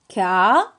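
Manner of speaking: "ka" alone, loud, with a held vowel; isolated syllable. Shown as a demonstration. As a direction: sound out the syllable "ka". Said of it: "La première syllabe".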